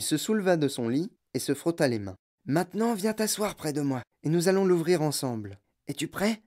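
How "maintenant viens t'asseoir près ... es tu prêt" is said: put-on higher old man's voice, eager and secretive; an old grandfather plotting with his grandson; old grandpa Joe. (voix de vieux grand-père complice)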